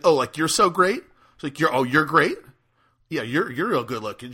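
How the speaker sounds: offended girl mocking his looks; sarcastic jab. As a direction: sneer it sarcastically.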